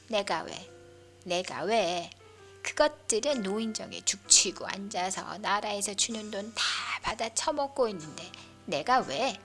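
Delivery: put-on loud, defiant old woman rising to a shriek; furious grandma defending her seat; indignant grandmother. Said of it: "목청은 여전하다".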